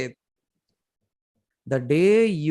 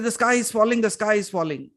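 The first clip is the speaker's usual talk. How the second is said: mock panicked scream; 5 semitones higher than usual. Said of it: "Screaming, running".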